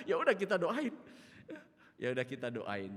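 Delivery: laughing, high and loud; amused retelling. Retold or imitated. Pastor retells agreeing to pray for Oma, laughing. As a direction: say it through a laugh, with gusto.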